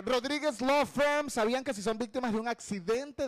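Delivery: ad read. Acted. Reads sponsor ad.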